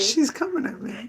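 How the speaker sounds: slow, high, hammed-up mock protest; mock alarm. Teasing back at her co-host with hammed-up mock alarm. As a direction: play at being under attack, drawn out.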